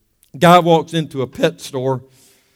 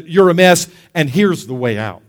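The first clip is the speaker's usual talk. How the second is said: conviction. Acted. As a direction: state the fault, then ease down into the remedy. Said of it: "Conviction comes and says".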